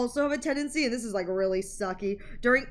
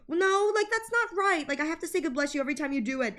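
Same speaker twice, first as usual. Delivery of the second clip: mock prissy insistence; 6 semitones higher, faster than usual. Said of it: "they're like".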